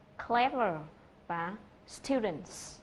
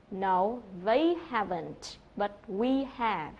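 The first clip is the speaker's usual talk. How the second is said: slow correction, "they" and "we" set in contrast; stress on THEY and WE; much slower than usual. Shown as a demonstration. Teacher voices a reply correcting who went, "they" and "we" stressed. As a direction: lean hard on "they", then on "we". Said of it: "người ta lại nhấn vào cái từ they".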